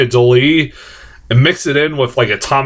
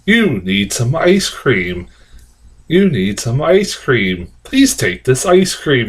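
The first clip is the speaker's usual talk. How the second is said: robot; slower than usual. Retold or imitated. Reviewer retelling the creepy ad's robot, slow mock robot. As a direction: drone it out like a pushy machine. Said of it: "a robot comes up to her and says".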